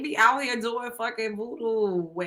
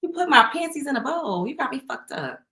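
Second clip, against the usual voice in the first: retold outrage; 5 semitones higher than usual. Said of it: "I said".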